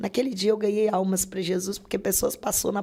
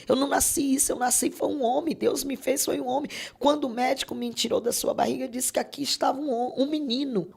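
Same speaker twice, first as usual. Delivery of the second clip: lightly voiced son, high and pleading; anguished son; 5 semitones higher than usual. Son's anguished plea retold. (leve voz de filho angustiado, suplicante)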